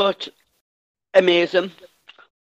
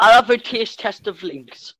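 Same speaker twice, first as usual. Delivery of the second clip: laughing; 3 semitones higher, 5 dB louder than usual. Real, not acted. Jokes about tasting deodorant.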